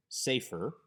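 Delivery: safer with the first vowel emphasized; stress on first vowel. Shown as a demonstration. Teacher shows students a segelet word, first-syllable stress on safer. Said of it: "with the emphasis on the first vowel".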